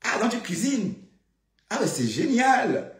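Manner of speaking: high, loud, stretched-out praise; gushing praise. Acted. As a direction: gush over her cooking. Gushing over Flore's cooking.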